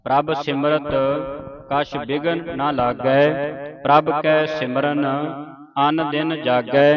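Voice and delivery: slow, measured sacred reading; scripture recitation. Shown as a demonstration. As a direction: intone each phrase with long final sounds.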